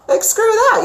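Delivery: high, loud burst of exasperation; ranting. Real, not acted. Reader venting about a pointless healing rant, high and loud. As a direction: explode with frustration at it. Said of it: "that was my rant".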